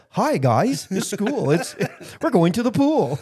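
chirpy put-on Yankee schoolboy; Yankee accent. Reading to Alabama classmates, perky Yankee accent. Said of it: "picked up the Yankee accent".

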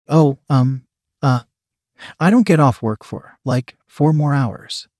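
halting, hesitant narrated stammer. A narrator's reading. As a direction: stall between words with ums and pauses. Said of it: "Brian stammered".

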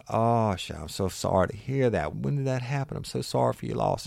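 high, gushing, overdone sympathy; man at the bar gushing sympathy, high and hammed-up; mock sympathetic man. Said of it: "He said".

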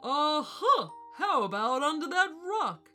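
high, loud burst of discovery; booming, pleased-with-himself guess; triumphant elephant. A narrator's reading. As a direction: crow it out proudly. Elephant triumphantly finds the ball.

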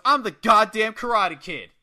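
loud, high triumphant boast; imitated yell. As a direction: yell it like a cocky wrestler. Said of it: "and he yells".

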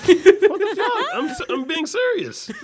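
high laughing protest. Real, not acted. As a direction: squeal it out through laughter.

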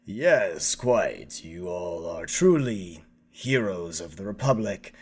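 a hint of a pompous politician, lightly voiced; lightly put-on stuffy statesman; pompous Chancellor.

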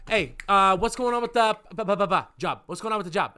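heated family shouting. Retold or imitated. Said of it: "The first thing they say is".

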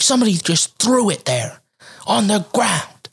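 high-pitched indignant mimicry; irate neighbor lady. Lady complaining about dumped trash, mock indignant. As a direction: mimic her complaint, slowing on the last words. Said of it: "She's like".

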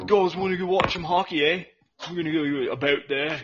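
quick mock Canadian with "eh"; Canadian accent. Inviting the guys to watch hockey, Canadian accent. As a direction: caricature a Canadian hockey fan. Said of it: "I love Canadians".

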